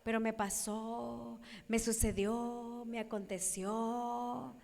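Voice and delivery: slow, soft hint of a whiny victim; self-pitying victim. New acquaintance listing misfortunes, lightly voiced slow self-pity. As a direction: drag out the complaint wearily. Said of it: "acabo de conocer a alguien y me dice".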